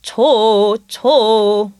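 좋 in three quick staccato notes; 좋 chopped short and quick. Shown as a demonstration. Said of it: "like a staccato beat".

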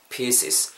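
"pieces" a little drawn out, final S kept clear; long, sounded S. Shown as a demonstration. Teacher modelling for listeners, "pieces" with both S sounds alive. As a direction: lengthen "pieces" and finish on an audible S. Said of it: "길게 발음해 주시고 S 발음까지 살려서".

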